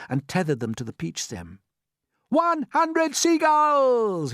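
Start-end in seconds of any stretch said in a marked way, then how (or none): 2.3-4.3 high, loud, very slow triumphant cry; shouted count. Acted. James counting gulls aloud, slow triumphant shout. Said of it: "he shouted".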